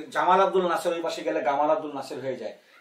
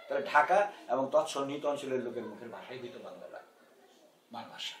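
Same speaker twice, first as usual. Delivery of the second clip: formal quotation reading. Retold or imitated. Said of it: "কোট".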